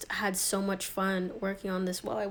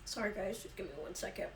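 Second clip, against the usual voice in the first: chewing noisily; 10 dB quieter, faster than usual. Real, not acted. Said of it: "a little A S M R moment".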